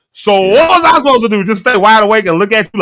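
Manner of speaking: high-pitched mock protest; exasperated retort. Husband retelling his comeback to his complaining wife, exasperated. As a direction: protest it high, as if arguing back.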